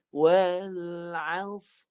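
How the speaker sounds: Wal as ending on a clear, trilled ra. Shown as a demonstration. Teacher repeating the verse with a clear ra. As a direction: make the ra in Wal as ring clearly. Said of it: "Bunyi ra tu kena jelas".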